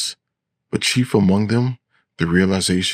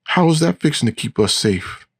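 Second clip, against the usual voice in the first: high-pitched shrill protest; shrill voice pitched well up; 9 semitones higher than usual. A narrator's reading. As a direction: object in a high, shrill character voice. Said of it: "in a high, shrill voice".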